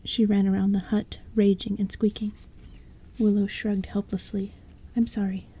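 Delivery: hushed, breathy-free whisper read; whispered storytelling. A narrator's reading. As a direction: bedtime story told in a whisper. Narration continues whispered.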